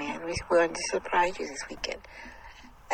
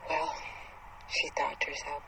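usual speaking voice

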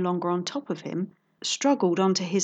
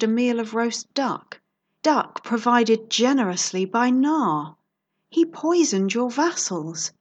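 dramatic reveal; 3 semitones higher, 3 dB louder than usual. Acted. Detective reveals the culprit.

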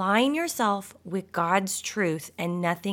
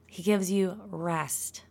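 calm and slow; 5 dB quieter, slower than usual. Shown as a demonstration. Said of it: "Can we just take a deep breath".

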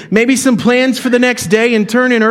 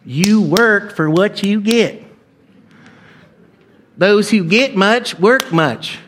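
mock stern moralizer; much slower than usual. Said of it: "the older son is a Republican".

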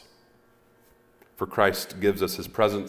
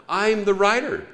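quoted author; 12 semitones higher, 5 dB louder than usual. Retold or imitated. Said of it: "I said".

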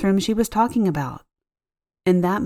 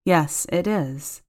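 slow, understated sadness; a hint of sadness; 2 semitones lower, slower than usual. Lonely sick client missing husband, a touch sad and slow. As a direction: let a little sadness slip in, slowly. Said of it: "with a hint of sadness in her voice".

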